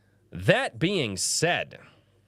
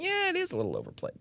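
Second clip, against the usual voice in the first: mock chat voter; 4 dB quieter, faster than usual. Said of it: "A lot of people are like".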